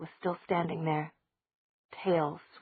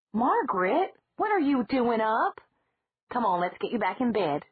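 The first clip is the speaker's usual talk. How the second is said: high, louder aunt voice; a fussing aunt surprised to find her up; Aunt Judith; 5 semitones higher, 4 dB louder than usual. Acted. Aunt Judith finds Margaret awake at night, high surprised voice. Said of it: "Aunt Judith's voice said".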